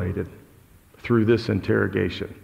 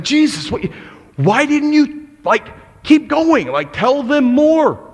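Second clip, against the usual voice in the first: exasperated plea; 14 semitones higher, 5 dB louder than usual. Pretend.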